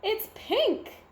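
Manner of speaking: high, shocked wail; dismayed. A narrator's reading. Smokey seeing his engine turned pink. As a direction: let the dismay spill out.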